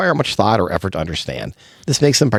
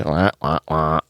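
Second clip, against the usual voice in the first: low, soft imitated "wah, wah, wah"; mock groaning wah-wah; 5 semitones lower, 3 dB quieter, slower than usual. Co-host defining dad jokes imitates the groaning reaction, mock wah-wah. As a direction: drop into a mock sad-trombone wah.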